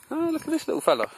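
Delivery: high sweet cooing. Real, not acted. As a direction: coo to a little animal. Cooing at small animal.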